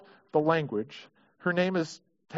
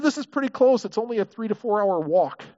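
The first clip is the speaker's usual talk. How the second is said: higher, breezy messengers making light of it; casual messengers; 4 semitones higher than usual. Retold or imitated. Messengers telling Peter the walk is short, higher and offhand. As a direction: brush it off like it's nothing. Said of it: "But they said".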